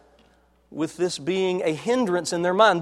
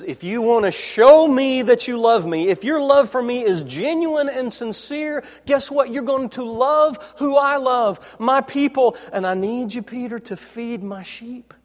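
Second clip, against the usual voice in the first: Jesus voiced higher and louder, urging Peter; Jesus pleading; 6 semitones higher, 4 dB louder than usual. Jesus telling Peter to prove his love, higher and louder. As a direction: lean in as Jesus asking for real love. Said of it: "what Jesus says".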